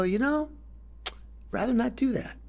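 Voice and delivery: pained reluctance. Retold or imitated. Telling lawyer, pained.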